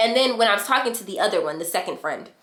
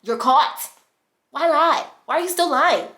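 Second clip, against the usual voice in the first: retold confrontation; 7 semitones higher, 4 dB louder than usual. Acted confrontation with cheating boyfriend.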